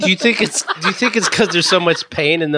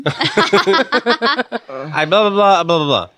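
dopey Danny impression; 5 semitones higher, much slower than usual. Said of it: "Yours is too dopey".

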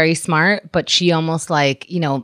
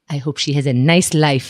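put-on light Israeli accent as the foreign mother; a hint of an Israeli-accented mother; mother's Israeli accent; 4 semitones lower than usual. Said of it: "when you do that accent".

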